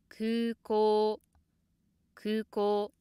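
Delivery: 空港 said high from the first sound, held level; 空港 on a steady high pitch throughout; high from the start. Shown as a demonstration. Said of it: "pronounced high from the start".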